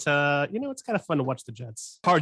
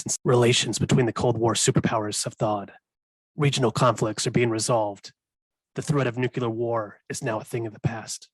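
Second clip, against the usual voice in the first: Solid Snake voice. Acted. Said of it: "how was my Solid Snake impression".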